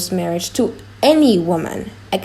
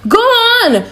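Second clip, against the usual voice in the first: loud, higher coaxing devil; tempting devil; 13 semitones higher, 6 dB louder than usual. Acted. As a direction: egg him on like a devil at his elbow. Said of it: "says the devil".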